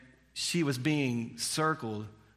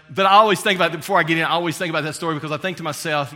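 preaching fervour; 4 semitones higher, 8 dB louder, much faster than usual. Real, not acted. Rising sermon emphasis.

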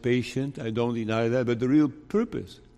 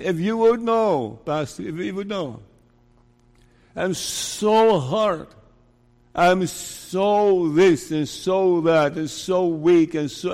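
desperate pleading; 3 semitones higher, 3 dB louder than usual. Retold or imitated. Preacher voicing a sinner's frantic plea, desperate and loud. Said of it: "you say".

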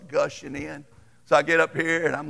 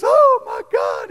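high, loud, slow gasp of horror; shocked cry; 8 dB louder, slower than usual. Retold or imitated. Wife gasping at the botched haircut, high shocked cry. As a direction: imitate the wife's stricken shriek. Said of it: "And she starts crying".

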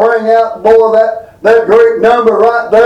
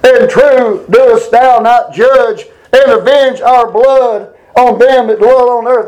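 crying out; 3 semitones higher, slower than usual. Retold or imitated. Preacher quotes those crying to the Lord, slow raised cry. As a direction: intone it slowly as a raised plea. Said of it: "They cried with a loud voice".

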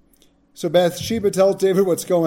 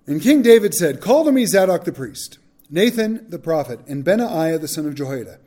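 measured, formal Bible reading with a raised voice; scripture reading; 3 dB louder than usual. Acted. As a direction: read the passage to the class, steady and solemn. Reads scripture aloud.

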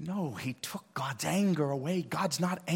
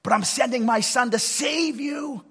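God speaking; 8 semitones higher than usual. Acted. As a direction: voice God, building to a shout. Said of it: "He said".

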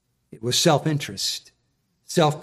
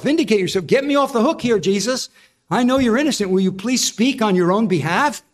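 higher, urgent pleading to Jesus; a governor begging the prisoner to speak; pleading Pilate; 5 semitones higher than usual. Retold or imitated. Pilate pleads with Jesus to defend himself, urgently. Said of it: "where he says to Jesus".

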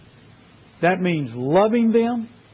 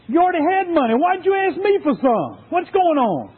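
mad again; 10 semitones higher than usual. Acted. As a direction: demand an answer, mad. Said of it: "started getting mad again".

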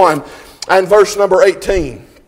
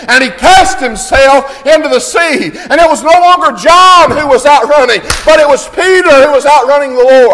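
loud, driving pulpit delivery; impassioned sermon cadence; full-force preaching; 5 semitones higher, 5 dB louder than usual. Real, not acted. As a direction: preach it with rising fervour.

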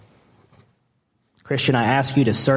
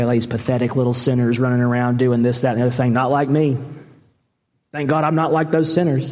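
smug mock quote; faster than usual. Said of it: "look down our nose and say".

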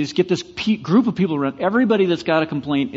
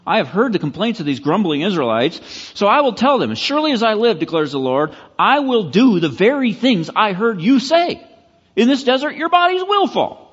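building higher and louder to a ringing close; a touch of stern divine warning; 5 semitones higher, 3 dB louder than usual. Retold or imitated. God answers the grumbling Israelites, building to a loud, high verdict. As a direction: read God's judgment, rising toward a proclaimed climax. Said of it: "He says".

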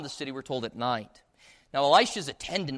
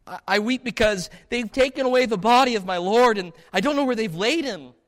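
grieving Mary; 7 semitones higher, 7 dB louder than usual. Acted. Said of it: "Mary replies".

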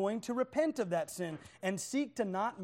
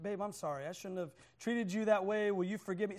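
apologetic; 2 semitones lower, 4 dB quieter than usual. Acted. Husband calls up his wife to say sorry, softly apologetic. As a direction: ask gently for forgiveness. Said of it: "he calls up his wife".

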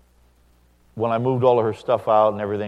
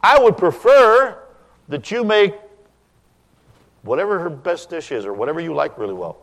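polite request; 8 semitones higher, 7 dB louder than usual. Shown as a demonstration. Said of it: "That's a good line".

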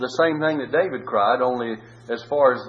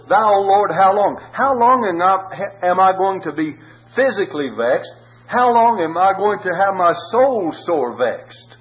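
anguished plea; 6 semitones higher, 5 dB louder than usual. Acted. David crying out to God in his suffering, anguished. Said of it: "He just says".

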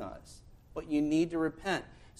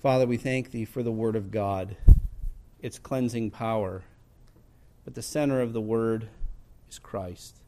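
low-pitched, solemn prayer in measured phrases; public prayer; 5 semitones lower, 5 dB louder than usual. Real, not acted. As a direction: lead the congregation in solemn prayer. Leads closing prayer.

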